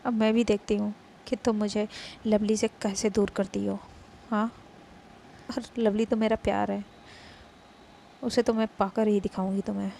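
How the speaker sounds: loud, taunting rival's vow; loud jealous dare; defiant challenge. Acted. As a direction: throw the challenge back loudly.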